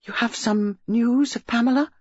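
high, rising, eager question; anxious mother's eager question; eager cry. A narrator's reading. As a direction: plead for news, pitch lifted. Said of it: "Missus Reeves cried out eagerly".

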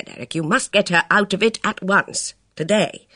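lightly voiced commanding lady, pressing; hint of an imperious society woman; urgent worldly woman. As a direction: coax then insist, a confident woman. Bess urges Luscombe.

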